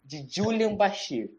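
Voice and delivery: slow dramatic prediction; drawn-out mock prophecy; ominous prophecy. Portentous prediction.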